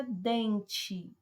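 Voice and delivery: first syllable of "dente" drawn out; stressed first syllable. Shown as a demonstration. Teacher asks class for the stressed syllable, stressing DEN in "dente". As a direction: lean slowly on DEN in "dente". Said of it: "Qual é a que se destaca mais? É o dem".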